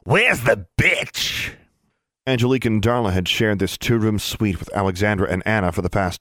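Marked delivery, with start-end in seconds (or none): 0.0-1.5 high, drawn-out screech; high squawking pet voice, stretched out; obnoxious screech. A narrator's reading. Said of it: "a loud, obnoxious voice screech".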